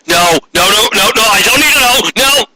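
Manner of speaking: flustered no, no, no; Molly panicking. Acted.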